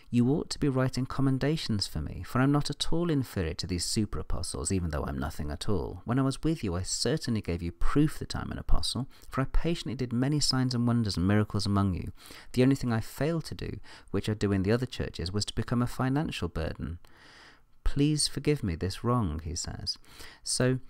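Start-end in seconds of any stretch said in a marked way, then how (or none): 0.1-17.0 higher-pitched, mildly sarcastic quoting. Retold or imitated. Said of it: "rather kind of a sarcastic tone". 17.8-19.4 higher, mock-apologetic sarcasm; sarcastic. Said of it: "rather kind of a sarcastic tone".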